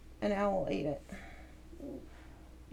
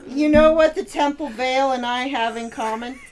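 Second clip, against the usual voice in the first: cheesy pickup line; 7 dB louder than usual. Pretend. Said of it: "here's one".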